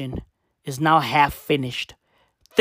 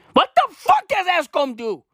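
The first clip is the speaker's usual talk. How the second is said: outraged shout; 12 semitones higher than usual. Real, not acted. Demanding to know what Eskom is for, outraged shout. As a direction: throw the question up in outrage.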